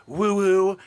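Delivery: slow, drawn-out mock call; lazy imitation of a party yell; mimicking woo-woo. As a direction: stretch it like a hype man. Mimics Zabrosk's signature call.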